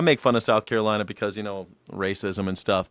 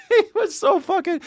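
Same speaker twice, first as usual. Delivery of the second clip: laughing up high mid-sentence; 3 dB louder than usual. Real, not acted. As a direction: laugh through the words. Laughing while telling story.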